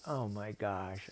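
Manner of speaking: slow, drawn-out disbelief; exasperated octopus. Acted. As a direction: drag out the words, fed up. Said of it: "And the octopus said".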